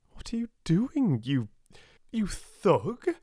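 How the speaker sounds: furious daughter yelling at the tackler; shouted. Acted. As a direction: scream at him to stop. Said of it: "she shouted".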